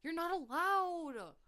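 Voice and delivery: high, loud, begging wail; mock desperate pleading. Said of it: "thrashing and screaming".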